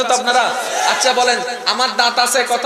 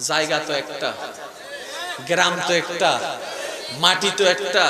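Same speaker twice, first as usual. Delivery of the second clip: hushed musing; 9 semitones lower, 7 dB quieter than usual. Acted. Preacher drops voice for reflection.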